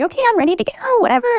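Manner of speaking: high, put-on childish chirp; eager little kid. Dressed-up child to mom before play date, mock-eager high voice. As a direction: imitate a small child raring to go.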